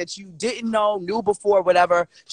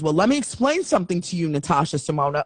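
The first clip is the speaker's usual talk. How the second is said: lightly voiced radio man, lower on the name; hint of a radio host saying a full name; imitated radio voice; 4 semitones lower than usual. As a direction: imitate a serious radio voice, low at the end. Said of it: "radio voice".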